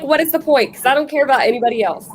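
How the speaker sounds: talking while chewing food; words around a bite of food; mouth full. Real, not acted. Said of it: "are you eating Chinese food?".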